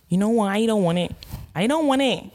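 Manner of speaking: put-on Bajan accent. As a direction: try a lilting Bajan accent. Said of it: "Is that Bayesian?".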